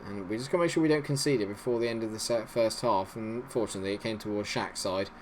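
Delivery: usual speaking voice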